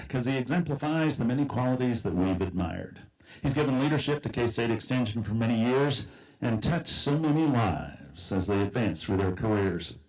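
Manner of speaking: rhyming poem recited aloud; lilting recitation of rhymed verse; cowboy poetry. Acted. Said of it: "I've written a cowboy poem".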